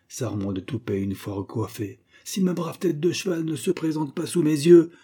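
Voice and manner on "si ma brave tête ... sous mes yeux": louder defiant threat, lightly voiced; a hint of a man daring the devils; threatening grandfather.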